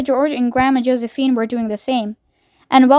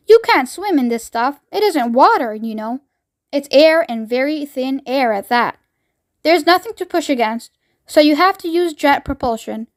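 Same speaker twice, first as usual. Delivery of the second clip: eccentric chocolate maker. Acted. Wonka explains jet propulsion.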